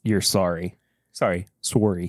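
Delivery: a playful hint of a Canadian apology; mock Canadian sorry. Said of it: "You gotta say".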